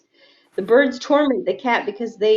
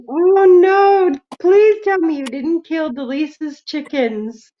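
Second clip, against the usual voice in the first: mock panic; 4 semitones higher, slower than usual. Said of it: "I'd be freaking out".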